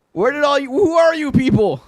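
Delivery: surprised. Real, not acted. Streamer surprised by sudden crowd.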